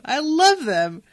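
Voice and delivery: slow, loud, heartfelt repeat. Real, not acted. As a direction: lean into it with real affection.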